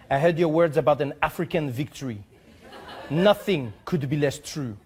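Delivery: lightly voiced, pompous French ambassador reading his letter; a hint of a haughty French diplomat. Host reading the ambassador's letter aloud, mock pompous. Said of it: "I'll try to read it how I hope he wrote it".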